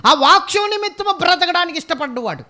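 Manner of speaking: preacher pressing the congregation about dry churches; fiery preaching. Acted. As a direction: preach it out with full force. Preaching at full force.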